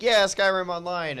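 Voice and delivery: high, drawn-out mock cheer; excited. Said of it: "I was excited for it because I was like".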